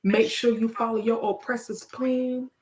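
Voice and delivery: measured spoken-word cadence; poem recitation. Acted. Poet urging listeners to ask God, measured verse. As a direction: recite in short phrases, leaning on the rhymes.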